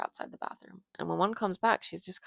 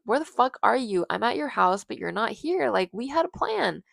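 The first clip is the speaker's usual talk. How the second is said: loud, higher-pitched indignant demand; angry demand; 7 semitones higher, 9 dB louder than usual. Acted. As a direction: tell someone off for standing you up. Frank angry at being stood up.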